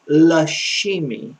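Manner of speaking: la chimie said slowly, "lah shee-mee"; slowed down. Shown as a demonstration. Teacher giving French word for chemistry, la chimie slow and deliberate. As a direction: give la chimie unhurried, for learners to copy. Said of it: "try to slow down a little bit now".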